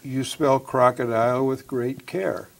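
slow, measured answer; slow and careful. Shown as a demonstration. Answering a riddle as told, very slowly. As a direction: take your time over each word.

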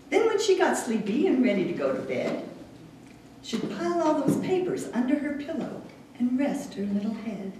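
wry storytelling poem read to an audience; light comic verse, paused at line breaks. Acted. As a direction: recite it line by line, setting up the joke. Reads poem about sister.

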